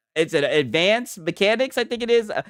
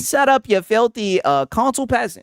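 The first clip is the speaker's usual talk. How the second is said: mock British insult; 6 semitones higher than usual. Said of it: "my U K boys are saying".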